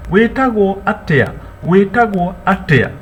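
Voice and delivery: "Karibu. Wetagwo atia?" high and bright; welcoming a visitor and asking their name; welcoming question. Shown as a demonstration. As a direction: call it out to the guest. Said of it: "That is to ask".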